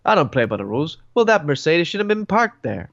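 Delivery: noir detective. Pretend. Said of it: "he sounds like a, a detective who doesn't play the, by the rules".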